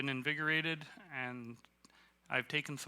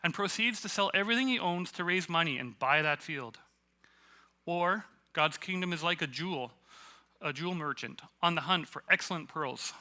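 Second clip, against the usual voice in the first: loud, raised-voice proclamation; yelled scripture reading; 4 semitones higher, 6 dB louder than usual. Shown as a demonstration. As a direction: read it out with big, loud energy. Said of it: "read it that way to yourself when you're reading".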